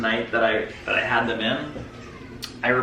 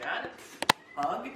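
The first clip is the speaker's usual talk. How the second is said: much softer, small pleading voice; soft kid plea; 5 semitones higher, 12 dB quieter than usual. Retold or imitated. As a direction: ask for a hug like a shy kid. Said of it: "he's like".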